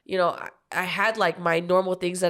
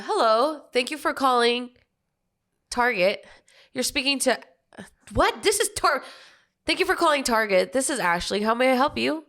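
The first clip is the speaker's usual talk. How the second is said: higher, bright phone greeting; customer service voice; 4 semitones higher than usual. Shown as a demonstration. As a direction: answer the store line sweetly. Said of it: "I say hello".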